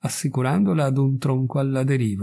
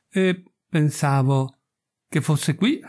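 snapped; 2 semitones higher, slower than usual. Acted. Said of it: "scattò Wharton".

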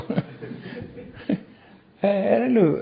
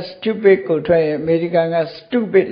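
British and American; much slower than usual. Shown as a demonstration. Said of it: "အင်္ဂလိပ်က ... အမေရိကန်က".

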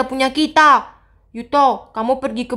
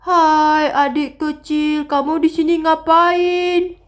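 creepy ghost voice; slower than usual. Acted. Ghost greets Mia at night.

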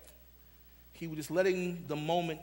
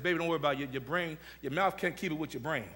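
a touch of tender mother; 2 semitones lower than usual. Retold or imitated. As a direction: comfort a stuttering child gently. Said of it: "my mother said".

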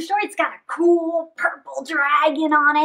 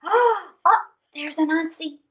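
relieved surprise; 3 semitones higher than usual. Acted. Relief at finding Anansi.

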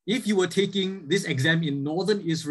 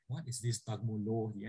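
puzzled student; 5 semitones lower, 12 dB quieter than usual. Retold or imitated. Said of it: "and you're like".

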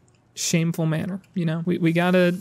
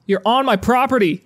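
loud, higher angry shout; furious yell; 4 semitones higher, 5 dB louder than usual. Real, not acted. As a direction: run them off your lawn. Yelling at trespassers.

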